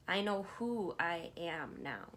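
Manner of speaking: I know WHO I am now, slowly, with who leaned on; slow affirmation, stress on who. Shown as a demonstration. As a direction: lean on the word who, slow and steady. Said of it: "put emphasis on different parts of the word".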